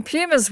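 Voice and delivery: Pumas said as PYOO-muhz; Anglicised "Pumas" with a y-glide, PEW-muhz; English pronunciation. Shown as a demonstration. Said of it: "sports announcers say Pumas".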